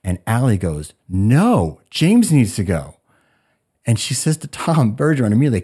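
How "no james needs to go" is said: louder, insistent retold objection; emphatic protest. Allie objecting to James being sent home, emphatic protest. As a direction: act out a firm, drawn-out protest.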